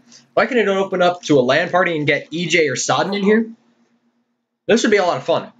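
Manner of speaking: talking with a mouth full of chips; crunching chips. Real, not acted. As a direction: speak round a mouthful of chips. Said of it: "Sorry, I'm eating chips while doing my outro".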